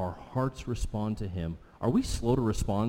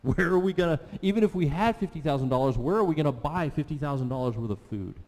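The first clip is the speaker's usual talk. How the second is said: incredulous disciples; 3 semitones higher than usual. Retold or imitated. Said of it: "And they're like".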